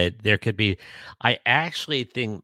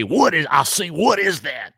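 mock puzzled; 7 semitones higher than usual.

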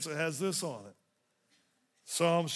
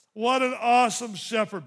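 louder, preached again; 4 semitones higher, 7 dB louder than usual. Shown as a demonstration. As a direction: repeat it louder, AWESOME ringing out. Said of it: "same words said before plainly".

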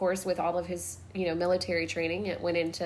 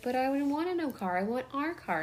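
put-on upset little boy; 5 semitones higher, 5 dB quieter than usual. Son upset about losing the car.

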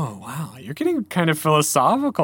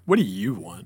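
lower, offhand brush-off; kind of rude; 6 semitones lower than usual. Shown as a demonstration. Host showing how the lion's question reads, rude. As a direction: say it as if mildly bothered. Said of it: "kind of rude".

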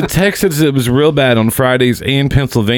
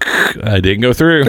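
machine noise imitation; slower than usual. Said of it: "I make the noise".

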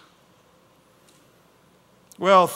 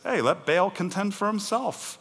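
higher, casual challenging voice; Gideon's dad; 4 semitones higher than usual. Acted. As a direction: toss it out as an easy challenge. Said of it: "And his dad says".

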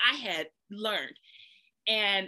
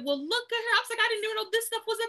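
mock posh marvelling; 13 semitones higher, faster than usual. Mock-marvelling at her treatment.

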